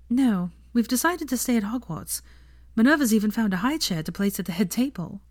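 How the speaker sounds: a hint of a young woman's voice; Hermione voice.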